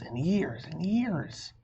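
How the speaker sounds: slow, stretched plea; drawn out. Acted. Amelia Bedelia stretching out her promise to her parents, slowly. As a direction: draw the years out slowly.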